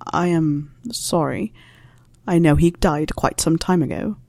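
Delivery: a lightly voiced wry old teacher, unhurried; dry Snape voice.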